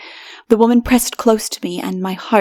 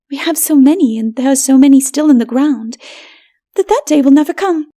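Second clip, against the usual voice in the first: higher, haughty voice; proud city woman; 5 semitones higher, 6 dB louder than usual. A narrator's reading. Bulika woman explaining to stranger, haughty. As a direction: dismiss the poor lightly.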